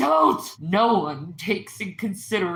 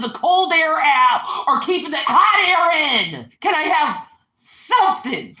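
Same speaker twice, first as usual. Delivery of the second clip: irritated yelling; 3 semitones higher than usual. Real, not acted. Angry complaint at partner.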